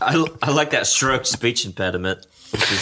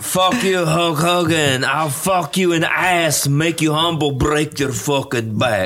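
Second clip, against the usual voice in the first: Iron Sheik impression; 4 semitones higher than usual. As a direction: bellow it like a heel wrestler. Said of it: "Iron Sheik, where he's like".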